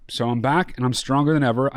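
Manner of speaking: stuffy nose after covid; a little nasally, blocked nose. Real, not acted. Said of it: "do I still sound, like, a little nasally".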